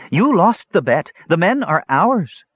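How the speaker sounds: high, triumphant crowing; high-pitched gloating, only mildly shouted; women's shout. A narrator's reading. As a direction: claim the prize in a high, exultant voice. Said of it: "shouted the women".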